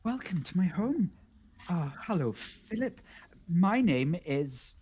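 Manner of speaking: lightly voiced timid host; friendly frog-cave host. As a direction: greet a stranger haltingly, words spaced out.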